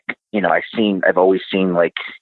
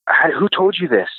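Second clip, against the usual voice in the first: high-pitched retold disbelief; imitated astonishment in a raised voice; astonished sister; 11 semitones higher than usual. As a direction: act out a sister's startled question, pitched way up. Sister's astonished question, acted in retelling.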